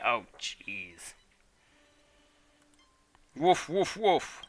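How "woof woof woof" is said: higher playful barks; dog barking. Retold or imitated. Dog answering the sumo challenge, playful barks. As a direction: yap like a small dog. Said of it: "Who's barking?".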